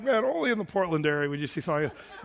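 telling the congregation about a parrot on a stroll, laughing. Real, not acted. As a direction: burst out laughing at the sight. Amused at a pet bird walk.

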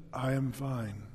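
low, quiet, deadpan answer; a hint of an odd stranger, low and quiet; mumbled low reply; low flat reply. Strange man answering pastor flatly.

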